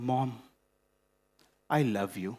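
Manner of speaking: low, soft, sad murmur; mournful son calling his mom at night; depressed. Retold or imitated. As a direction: say it heavy and sunk. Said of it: "in a very depressing tone".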